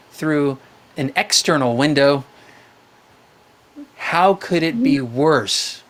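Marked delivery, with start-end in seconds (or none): 4.0-5.8 each word drawn out slowly; slow emphatic question. Shown as a demonstration. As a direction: ask it slowly and deliberately. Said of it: "to calm yourself down".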